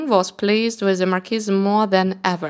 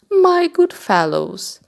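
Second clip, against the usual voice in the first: raised, slow call to the reapers; 8 semitones higher, 4 dB louder, slower than usual. Acted. Cat calling out to the reapers across the field, slow and raised. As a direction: call them over from afar.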